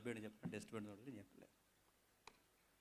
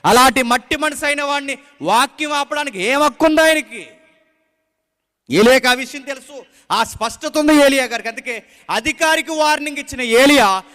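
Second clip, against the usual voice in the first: loud, driving sermon delivery; forceful preaching; 8 semitones higher, 14 dB louder than usual. Acted. Preacher exhorting the congregation, loud and forceful. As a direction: preach it out to the whole church.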